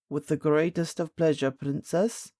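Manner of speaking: bow to the princess with the words; captain of the guard answering gallantly. A narrator's reading. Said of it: "answered the captain".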